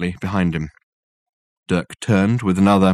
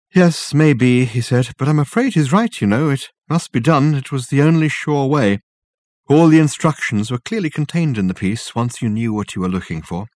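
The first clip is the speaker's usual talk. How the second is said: put-on an old professor explaining with conviction; Reg's voice. Reg speaks in the story.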